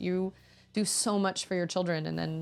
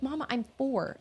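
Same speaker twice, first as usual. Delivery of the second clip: put-on high little-kid voice; imitated small child; 7 semitones higher than usual. Four-year-old answering her mom, imitated child voice. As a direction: lightly imitate a young daughter. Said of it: "she was like".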